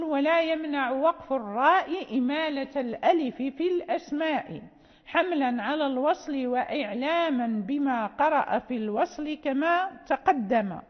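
steady chanted reading of the whole couplet; verse recitation. Shown as a demonstration. Teacher reciting the whole couplet before explaining, measured. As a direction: recite the full verse in one sweep.

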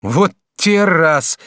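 student crying out in surprise; exclaim. Acted. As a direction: shout in amazement. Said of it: "закричал Жак".

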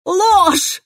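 high, piercing scream. A narrator's reading. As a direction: break into a scream of denial. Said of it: "Я сорвалась на крик". (сорвалась на крик)

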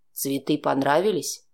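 low, offhand man's voice, tossed away; lazy menace of a man with a gun; casual Oleg. A narrator's reading. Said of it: "небрежно спросил Олег". (низкий небрежный мужской голос)

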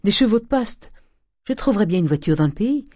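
loud, high, urgent orders; crying out. Acted. Nephew demanding horses to reach his father, shouting urgently. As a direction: shout for help in a hurry. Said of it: "cria-t-il".

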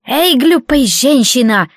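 slow, creaky jeering bandit; creaky mocking laugh voice. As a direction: sneer it out with a creak. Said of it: "скрипуче засмеялся шуйгуец".

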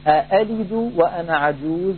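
أألد وأنا عجوز recited as a Quran example; recited verse example; quoting the verse. Shown as a demonstration. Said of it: "يقول".

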